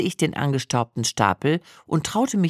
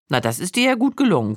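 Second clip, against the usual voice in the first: dry remark; 2 semitones higher, faster than usual. Retold or imitated. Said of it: "kommentierte mein Mann nüchtern".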